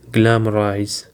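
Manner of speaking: "Glamorize" with the weight on GLAM-; stress on first syllable. Shown as a demonstration. Teacher models the fifth word for learners, stressed on first syllable. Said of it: "the stress is on the first syllable".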